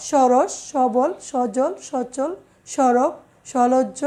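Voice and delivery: সরস, সবল, সজল, সচল, সরব, সলজ্জ said slowly with the first অ kept open; slow careful demo. Shown as a demonstration. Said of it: "সহিত অর্থে স". (ধীরে স্পষ্ট উচ্চারণ)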